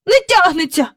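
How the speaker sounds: high, out of breath; breathless boy. Acted. Michael gives up pulling the kite, breathless and high. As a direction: strain from pulling, short of breath. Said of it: "сказав він".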